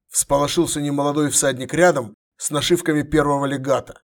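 ordinary delivery, nothing marked

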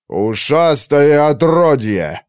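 thundering rage. A narrator's reading. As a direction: spit the insult out like thunder. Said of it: "прогремел Эбенайзер". (маг гремит от ярости)

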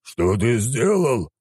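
slow, rising-pitched outrage; affronted deity demanding an answer; indignant demand. A narrator's reading. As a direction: stretch each word in indignation. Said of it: "возмутился он".

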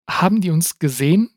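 höher und lauter, ängstlich gefragt. A narrator's reading. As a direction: die Angst in die Frage legen. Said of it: "fragte Takis ängstlich". (Takis fragt voller Angst vor dem Mob, höher und lauter)

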